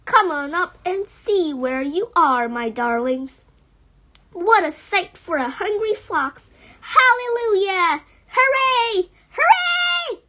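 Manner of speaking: rising exuberant hoorays; joyful cheering. Acted. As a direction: cheer it like a triumphant fox. Fox cheering with joy.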